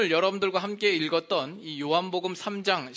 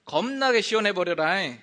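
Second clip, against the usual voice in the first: louder Jeolla dialect; 5 semitones higher, 7 dB louder than usual. Shown as a demonstration. Pastor demonstrating Jeolla dialect, lively Jeolla. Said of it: "전라도는".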